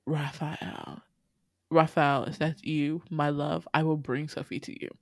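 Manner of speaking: as if seeing a lost love again; awed longing. Acted. Lesso softly calling to her lost love Raphael. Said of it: "Professor Lesso is shook if to her core".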